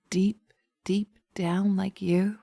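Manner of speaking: teasing whisper. Acted. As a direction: whisper it close to the ear. Witch teasing the entranced listener.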